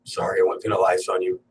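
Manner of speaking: hushed, half-whispered fake apology; quiet put-on remorse to the audience; sheepish mock apology. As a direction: sheepishly take it back under your breath. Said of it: "You're like".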